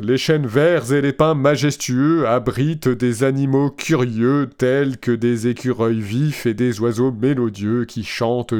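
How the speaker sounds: flat, even machine voice; robot voice. Retold or imitated. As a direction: read it like a chatbot. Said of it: "avec ma belle voix de robot".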